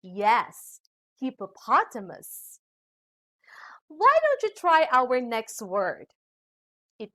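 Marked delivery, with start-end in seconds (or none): 1.2-2.6 hippopotamus stressed on POT, falling; correct pronunciation. Shown as a demonstration. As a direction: confirm hippopotamus as hip-uh-POT-uh-mus. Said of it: "The correct pronunciation of this is".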